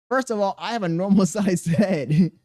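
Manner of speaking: laughing through the words; a denial that breaks into a laugh. Real, not acted. Denies big head, laughing.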